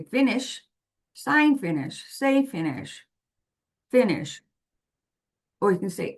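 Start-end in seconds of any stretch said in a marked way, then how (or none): 0.0-4.4 put-on prompting a child. Shown as a demonstration. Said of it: "you want to say".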